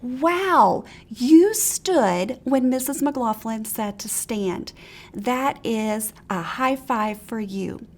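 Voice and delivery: slow, delighted praise; enthusiastic praise. Shown as a demonstration. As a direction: cheer the child on slowly. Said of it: "positive motivation".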